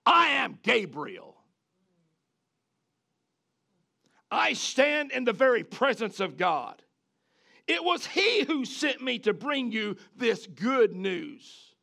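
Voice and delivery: slow, weighty angel proclamation; stern angel. Retold or imitated. Angel Gabriel to Zechariah, slow and solemn. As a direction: pronounce it slowly as God's messenger. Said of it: "angel is speaking".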